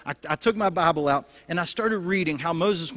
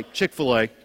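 low comic voice of God; hammed-up low oracle reply; mock answer from God; 6 semitones lower, 4 dB louder than usual. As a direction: drop low for God's verdict, amused. Playing God's comic answer.

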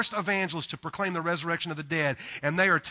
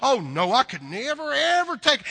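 polite Southern refusal; 6 semitones higher, 3 dB louder than usual. Retold or imitated. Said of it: "what people do in the South".

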